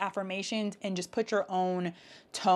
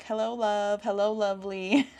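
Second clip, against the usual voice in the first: sweet greeting; 3 semitones higher, slower than usual. Retold or imitated. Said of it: "So you probably hear me speak when I'm like".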